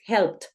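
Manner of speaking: "helped" said "helpt", one syllable; strong final T. Shown as a demonstration. Teacher shows that the T is strong, crisp ending. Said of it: "esa T es fuerte".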